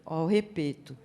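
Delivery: put-on "repeto" with the s and i dropped, as a toddler says it; imitated toddler pronunciation. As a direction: imitate a small child saying "repeto", simplified and low-key. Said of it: "meu sobrinho tinha três aninhos". ("repeto" imitando fala de criança pequena, sem s nem i)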